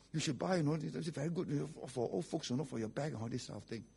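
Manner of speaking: pastor's wife selling. Retold or imitated. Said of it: "You know what the wife did?".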